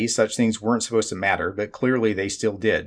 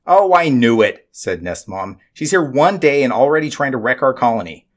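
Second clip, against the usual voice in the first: accusing; 3 semitones higher, 4 dB louder than usual. Acted. Nestmom accuses the Judican, triumphant.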